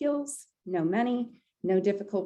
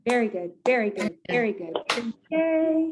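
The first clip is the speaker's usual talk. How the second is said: cheer; 3 semitones higher than usual. Shown as a demonstration. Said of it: "And then we will end".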